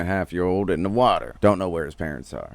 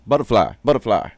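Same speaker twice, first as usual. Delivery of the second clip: put-on louder, childlike butterfly call; mock toddler excitement; 3 semitones higher, 7 dB louder than usual. Toddler spotting movement in the grass, mock excitement.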